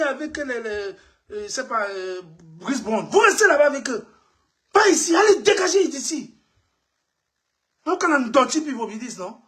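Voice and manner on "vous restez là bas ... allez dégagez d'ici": angry shout. Real, not acted. Chasing them away in rant.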